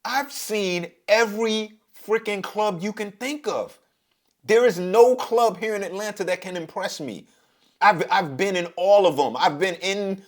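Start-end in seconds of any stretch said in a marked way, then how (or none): 0.1-7.2 incredulous. Retold or imitated. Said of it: "I'm looking at this chick like".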